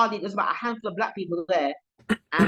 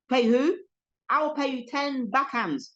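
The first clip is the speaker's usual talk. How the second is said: indignant comeback, pitched up, drawn out at the end; mock indignant retort; 5 semitones higher than usual. Defying a man demanding ten pound, mock indignant. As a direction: act out a slow, higher-pitched threat. Acted retort in turf dispute.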